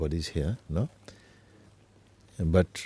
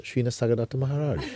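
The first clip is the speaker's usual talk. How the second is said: laughing; 5 semitones higher, faster than usual. Real, not acted. Laughs revealing who it was.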